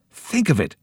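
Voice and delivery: an eager shout. A narrator's reading. Joe shouting the news to his friends. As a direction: call it out, thrilled. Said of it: "shouted Joe".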